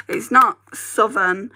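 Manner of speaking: not leaned on, slowed a little; stress on not. Real, not acted. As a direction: drag out not to set it apart. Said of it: "It's very northern".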